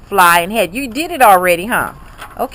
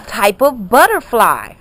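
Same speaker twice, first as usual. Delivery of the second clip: slow modelled reading; slower than usual. Shown as a demonstration. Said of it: "A monarch is a what?".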